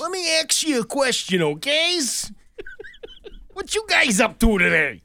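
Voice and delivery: high caricature of a New England relative; mock New England accent. Co-host plays a relative at the introduction, mock New England accent. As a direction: ham up the regional accent, pitched high.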